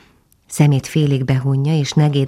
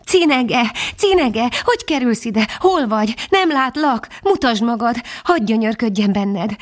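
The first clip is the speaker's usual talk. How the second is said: tearful dog voice; 7 semitones higher than usual. A narrator's reading. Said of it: "Sírt, zokogott Füstös".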